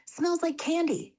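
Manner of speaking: high, slow, squeaky little critter; squeaky muskrat. Acted. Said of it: "Glimmer squeaked".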